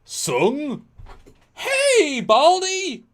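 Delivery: hammed-up shout across the room at him; Picard yelling. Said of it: "Picard's like".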